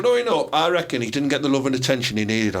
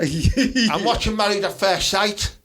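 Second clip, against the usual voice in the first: Teesside man voice; 4 semitones higher, slower than usual. Pretend. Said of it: "had the Teesside man voice".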